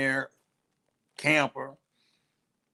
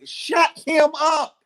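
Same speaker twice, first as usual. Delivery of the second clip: firm order; 5 dB louder, slower than usual. Real, not acted.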